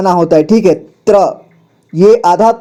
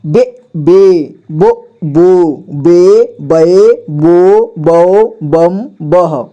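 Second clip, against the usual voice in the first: slow, sing-song syllable recitation; slow teacher drill chant; 2 semitones lower, much slower than usual. Shown as a demonstration. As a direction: chant each syllable out for the class. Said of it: "इसके बाद".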